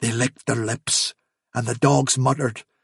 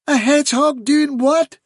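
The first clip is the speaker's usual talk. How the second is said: high-pitched astonished question; incredulous badger; 12 semitones higher than usual. A narrator's reading. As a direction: question it in sheer disbelief.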